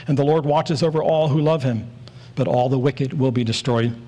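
both "all"s given extra weight; stress on each "all". Shown as a demonstration. Preacher reading a Psalm to the church, emphasis on each "all". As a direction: lean on "all" each time it comes. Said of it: "I'm gonna emphasize the word all".

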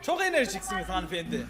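man doing a woman's voice. Acted. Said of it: "demin adamı kadın sandık lan".

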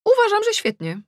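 high, loud, overdone approval; forced enthusiasm. Acted. Mother faking delight at her daughter's look, forced and high. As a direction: fake it brightly for the kids.

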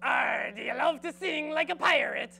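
loud hearty pirate call. Acted. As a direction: bellow it like a ship's captain. Pirate-themed school announcements.

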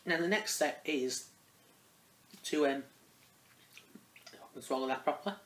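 talking with a mouthful; words round a mouthful of popcorn; mouth full. Real, not acted. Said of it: "Don't really want to be talking with a mouthful".

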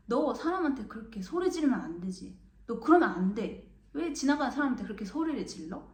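stern scolding. Retold or imitated. Friend scolds the boy.

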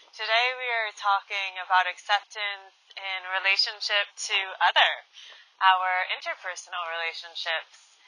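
quiet welcome to a guided meditation; meditation host. Real, not acted. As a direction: speak gently, easing listeners into the session. Opens the guided meditation session.

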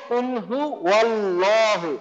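very slow কুল হু আল্লাহু with a wa after হু and a heavy lam; slow correct reading with a thick lam; correct recitation. Shown as a demonstration. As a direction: recite slowly, joining হু to ওয়াল্লাহু. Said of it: "আজকে থেকে আমরা কি পড়বো?".

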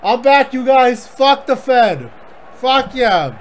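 hype promo. Pretend. New wrestler debuting, hyping himself.

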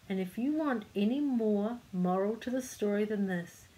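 measured picture-book reading; story narration. A narrator's reading. Reader telling children of the kite flight, story narration. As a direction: read the tale aloud to children.

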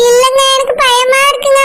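speaking through tears, afraid for her son; fighting back sobs as she speaks; tearful fear. Acted. Wife tells husband she is scared, crying. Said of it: "சொல்லலாம், அழாத".

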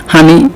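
হানি with an h sound for the p of পানি; regional pronunciation. Shown as a demonstration. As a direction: dialect হানি, breathy h at the start. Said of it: "দশটি আঞ্চলিক শব্দ দিয়েছি". (আঞ্চলিক উচ্চারণে হানি)

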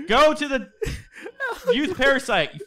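swearing tirade. Real, not acted. Swearing at the monster.

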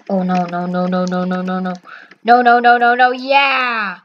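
suspense into cheer. Real, not acted. Gamer sweating a guess in line, suspense bursting into cheer. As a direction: start low, swell into a triumphant cry.

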